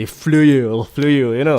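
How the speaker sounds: playfully imitating an Irish accent. Teasing about Irish movies, a hammed-up Irish accent. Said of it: "Irish punya movie lah".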